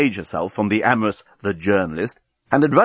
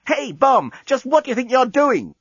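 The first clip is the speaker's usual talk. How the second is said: woman's voice; 13 semitones higher than usual. Acted. Lucy voiced in story.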